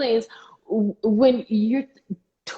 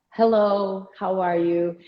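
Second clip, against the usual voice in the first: measured, courteous hello; polite greeting to elders; slower than usual. Shown as a demonstration. Showing how to greet older people in the room, politely. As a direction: greet them slowly and politely. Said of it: "there is a difference. You say hello".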